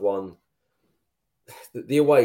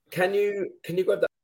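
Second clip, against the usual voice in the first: high call; 11 semitones higher than usual. Real, not acted. Calling over to the producer.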